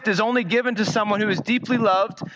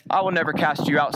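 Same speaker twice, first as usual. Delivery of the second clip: lower, quick, steady reply; Christ answering; 5 semitones lower, faster than usual. Retold or imitated. Preacher voicing Christ answering the doubting sinner, lightly voiced, lower. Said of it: "says Christ".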